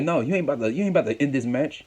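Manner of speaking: mildly acted wrestler's protest; indignant protest. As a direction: object as if cutting the referee off. Retelling Reigns arguing with referee.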